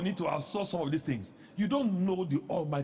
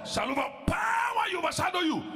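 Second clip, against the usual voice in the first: booming proclamation; 13 semitones higher, 3 dB louder than usual. Acted. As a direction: proclaim it like heaven speaks. Voicing angel's proclamation.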